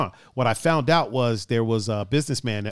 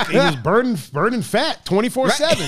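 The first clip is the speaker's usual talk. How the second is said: laughing; 9 semitones higher, 3 dB louder than usual. Real, not acted. Joking about Steve's shredded body.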